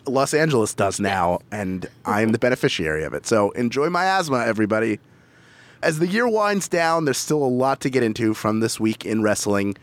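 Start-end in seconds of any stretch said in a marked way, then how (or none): 0.1-5.0 hoarse, rattly smoke-damaged voice; smoker's rasp. Real, not acted. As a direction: talk through a raspy smoker's throat. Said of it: "this rattling smoker's cough".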